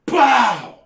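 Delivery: sudden loud, high "pow"; imitated gunshot. Sudden gunshot scaring the kid, explosive sound. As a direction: burst out like a rifle shot. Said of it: "all of a sudden I hear".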